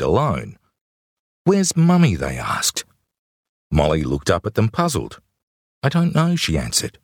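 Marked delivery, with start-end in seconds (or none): 1.4-2.1 concerned adult. Acted. Strangers questioning a lost child. 5.8-6.4 put-on little girl voice. Small child answering strangers.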